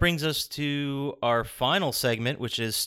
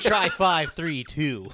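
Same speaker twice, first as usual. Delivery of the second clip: slow, loud know-it-all character voice; hammed-up smug show-off; Bentley; 3 semitones higher, 4 dB louder, much slower than usual. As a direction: brag slowly, in character. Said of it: "do this next one in Bentley's voice".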